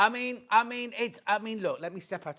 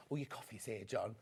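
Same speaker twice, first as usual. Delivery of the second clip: mock offhand aside; 9 semitones lower, 12 dB quieter than usual. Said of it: "not said".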